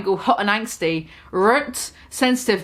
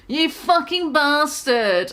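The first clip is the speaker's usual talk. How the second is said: slower moan; 4 semitones higher, slower than usual. Acted. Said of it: "I moaned".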